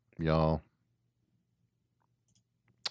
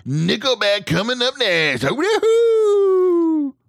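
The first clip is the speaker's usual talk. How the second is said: radio guy voice; 14 semitones higher, 8 dB louder than usual. Pretend. Co-host mock-introduces a band on air, radio guy voice. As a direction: put on a hammed-up morning radio host. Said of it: "That was just my radio guy voice".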